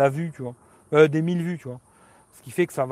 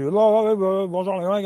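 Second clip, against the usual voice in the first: hyped youtuber intro; 4 semitones higher, 4 dB louder than usual. Retold or imitated. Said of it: "il faut que je fasse comme, Léo Duff".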